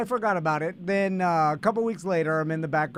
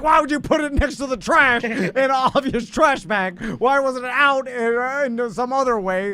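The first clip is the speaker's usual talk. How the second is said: raised, exasperated mock scolding; mock indignant. Husband turning blame on wife over trash bag, mock indignant. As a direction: push the blame back, mock outraged.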